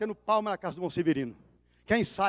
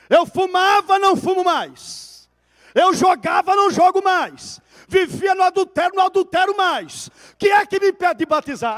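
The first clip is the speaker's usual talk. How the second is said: shouted testimony; 9 semitones higher, 11 dB louder than usual. Retold or imitated. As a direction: cry each line out to the congregation. Convert protests before whole church.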